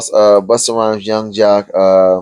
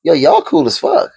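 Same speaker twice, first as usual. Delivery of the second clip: much higher and slow, amazed praise; excited praise. Retold or imitated. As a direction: gush about how cool they are, stretching it out. Retold praise to the rappers.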